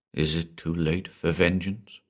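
softly, with cold menace; quiet. Acted. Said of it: "Johann asked quietly".

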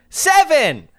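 high, loud exclamation; called-out roll. Real, not acted. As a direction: cry out the number high and loud. Calls out a dice roll.

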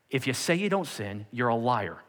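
unbothered, no-apology bluntness; blunt restatement. Acted. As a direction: say it plainly, dropping on the accusation. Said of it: "He wasn't like".

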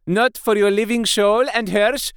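high, forceful and loud, barring the way; fierce command. A narrator's reading. Professor shielding Arthur from the vampire, fierce loud command. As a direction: stop him with fury.

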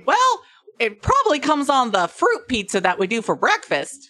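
put-on high-pitched, loud accented tavern keeper; bad-accent barkeep. Barkeep offering breakfast and lunch pizzas, hammed-up accent. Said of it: "only do one version of this accent".

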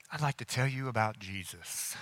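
low, soft phone-call voice; student on phone. Retold or imitated. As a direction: imitate a hushed, earnest call to a friend. Acts student making the phone call.

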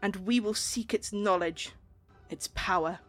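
measured speech with long pauses; lightly voiced solemn ruler; queen's proclamation. Queen closing her speech to the crowd, measured and solemn.

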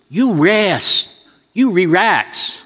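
drawn-out command in imitated East Asian accent; mock East Asian accent. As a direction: play the bossy masseur in a put-on East Asian accent. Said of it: "I'm not making fun of Orientals".

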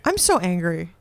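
put-on old voice. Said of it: "I don't wanna talk like this".

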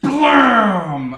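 loud, drawn-out falling boom; high, loud imitated explosion; mock cannon blast. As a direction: voice the shot landing with a big blast. Imitates the tank gun firing.

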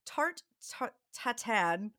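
"tatin" said the American way, stressed at the end; plain American accent on the French name; American pronunciation. Shown as a demonstration. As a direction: say "tarte ta-, tatin" with American vowels. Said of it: "say it like an American".

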